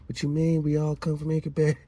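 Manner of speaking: high-pitched mock protest; mock indignant objector. Mimics objecting hijackers in comments.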